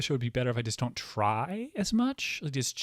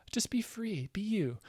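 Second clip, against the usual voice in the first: breathy whispered aside; whispering; 8 semitones higher, 6 dB quieter, slower than usual. Real, not acted. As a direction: whisper it to yourself. Self pep talk aside.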